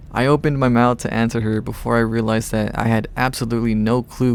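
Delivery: measured audiobook-style read; story narration. A narrator's reading. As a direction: narrate the tale evenly in first person.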